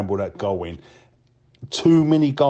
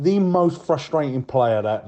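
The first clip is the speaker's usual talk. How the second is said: ordinary talk, nothing marked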